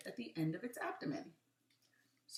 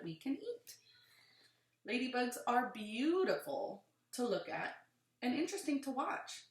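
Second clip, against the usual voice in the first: put-on reading to children; 3 dB louder than usual. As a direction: lively, clear read-aloud. Reads book aloud to children.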